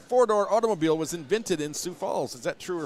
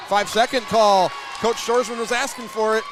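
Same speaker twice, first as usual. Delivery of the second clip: loud, raised-pitch announcer burst; excited violation call; 6 semitones higher, 8 dB louder than usual. Real, not acted. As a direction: call it out sharply over the crowd. Announcer calls a sudden violation.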